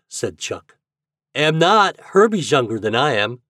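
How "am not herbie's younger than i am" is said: put-on loud boyish protest. A narrator's reading. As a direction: object firmly to a friend. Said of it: "protested Reddy".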